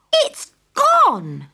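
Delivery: high, crying shout; a child's crying cry of loss; tearful shout. Acted. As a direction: wail it as if the money's gone. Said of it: "I shouted".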